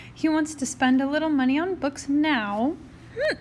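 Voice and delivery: talking through the hiccups. Real, not acted. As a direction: hiccup mid-sentence. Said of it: "I have the hiccups".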